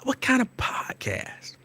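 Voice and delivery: high, slow, drawn-out question; suspicious clerk. Retold or imitated. Imitating the clerk narrowing in on him, high and slow.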